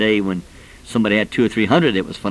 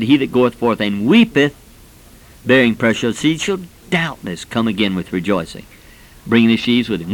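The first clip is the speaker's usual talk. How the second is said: scripture recitation. Acted.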